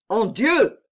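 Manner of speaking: a poet wincing at a clumsy phrase; scandalized exclamation. A narrator's reading. Poet recoiling at the countess's words, appalled exclamation. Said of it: "fit le poète avec une grimace horrible".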